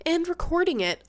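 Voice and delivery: blocked nose, slightly panting; stuffed up. Real, not acted. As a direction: talk through a head cold. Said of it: "I'm so sorry that I'm panting, but really, I am stuffed up".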